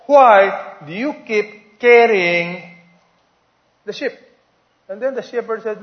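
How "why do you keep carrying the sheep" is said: curious tourist. Acted. Tourist questions shepherd.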